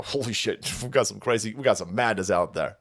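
ordinary talk, nothing marked

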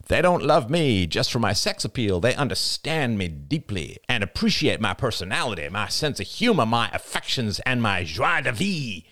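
hammed-up self-pity, pretentious; mocking vain speech. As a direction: ham up the misunderstood beauty act. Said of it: "Arlo pretended to be throwing a scarf".

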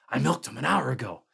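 panicked, voice cracking upward; breaking into a scream. A narrator's reading. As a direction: let the panic crack through. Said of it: "His voice broke into a scream".

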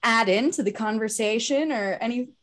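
talking with the hiccups. Real, not acted. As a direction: speak through hiccups. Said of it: "Sorry, I have the hiccups".

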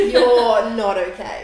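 loud, drawn-out retold alarm; mock shock, slow and emphatic with a laugh; freaked out. Partner finally seeing how bad she is, freaked out. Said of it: "first time he actually freaked out".

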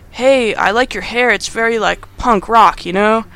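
a touch of casual, friendly coyness; flirty compliment. Retold or imitated. Adam compliments Amanda's hair, lightly acted flirting. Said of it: "a whole little flirting moment".

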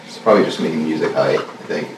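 mellow and spaced out, low-key; stoner. Real, not acted. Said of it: "I'm high every day".

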